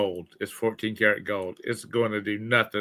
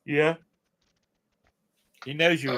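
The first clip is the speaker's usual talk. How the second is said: yawning; 3 semitones higher than usual. Real, not acted. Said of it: "Sorry to keep yawning".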